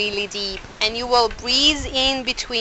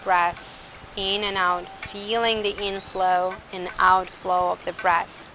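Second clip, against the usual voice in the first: guided meditation. Acted. Guided pranayama setup.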